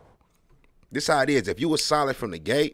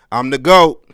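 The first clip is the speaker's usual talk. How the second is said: mock boast; 4 semitones higher, 17 dB louder, slower than usual. Mock boast he never says.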